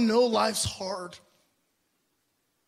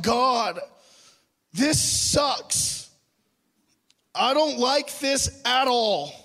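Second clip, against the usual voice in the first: mock temper tantrum; 3 semitones higher than usual. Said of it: "I was having a mild temper tantrum".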